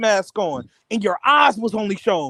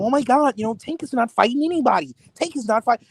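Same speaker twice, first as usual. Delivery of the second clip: squeaky voice; 2 semitones higher than usual. Retold or imitated. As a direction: imitate him in a slightly squeaky voice. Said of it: "I hear this squeaky voice".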